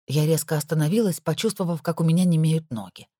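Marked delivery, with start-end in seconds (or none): none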